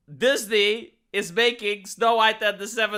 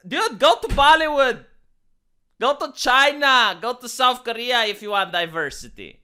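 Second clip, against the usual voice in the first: exasperated call; 4 semitones higher, 4 dB louder than usual. Real, not acted. Mock-exasperated rant at Peter.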